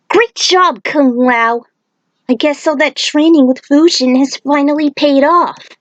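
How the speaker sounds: put-on bright, high girl's voice full of praise; cheerful young heroine. Aiko praises Kung Lao after his tornado, high and excited. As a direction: cheer him on like a proud teammate.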